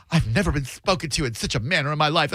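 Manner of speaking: fast, imitated flustered rant; mock outrage. Customer complaining to the manager, mock outrage. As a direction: imitate a customer flipping out, rushed. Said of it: "dude was flipping his you-know-what".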